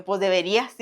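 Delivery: serious retort, mildly acted; deadpan serious. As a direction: imitate a dead-serious official. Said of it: "Y lo me dice, bien serio".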